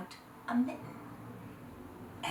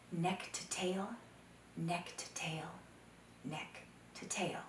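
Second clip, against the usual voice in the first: fading repetition; 9 dB quieter, slower than usual. A narrator's reading. Repeated phrase fading away.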